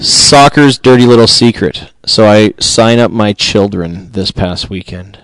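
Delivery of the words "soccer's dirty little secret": fuller, louder take close to the mic; right on the mic. Shown as a demonstration. Host restarting the segment close in on the mic, fuller. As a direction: punch it out now that you're close. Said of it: "Is the mic not close enough".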